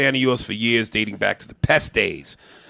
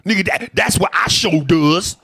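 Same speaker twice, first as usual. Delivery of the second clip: higher, louder mock impression of a stereotype; 6 semitones higher, 5 dB louder than usual. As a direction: lightly ham up the caricature. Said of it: "they're making fun of black people".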